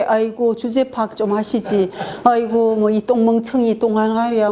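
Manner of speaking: mock contempt. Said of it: "경멸은".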